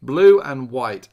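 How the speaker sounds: loud slow drawn-out sound effect. Pretend. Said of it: "sound effects are free".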